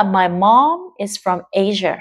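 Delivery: slow, clear "mom"; slow model reading. Shown as a demonstration. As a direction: read the line slowly. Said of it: "Mọi người để ý cái từ mom". (đọc chậm từ "mom")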